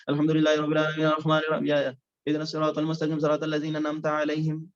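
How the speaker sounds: rushed monotone Arabic recitation, letters running together; over-fast recitation. Shown as a demonstration. Teacher showing reciters the fault of excessive speed, racing and slurring. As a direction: race through the verses, swallowing sounds. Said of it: "اتنی speed میں چلے گئے کہ وہ الفاظ کترتے جا رہے ہیں".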